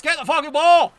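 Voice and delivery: loud furious demand; angry shout. Real, not acted. Gamer yelling at his team to get the ball. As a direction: yell it like the last warning. Urging the player to grab ball.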